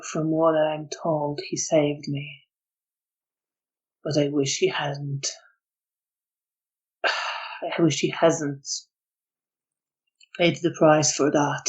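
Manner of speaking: lightly voiced guilt-ridden man. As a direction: speak with regret, sighing midway.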